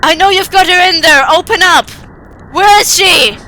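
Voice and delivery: furious, high, loud shouting; screams of rage. Acted. Father pounding on the door, screaming in rage. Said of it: "screams of rage".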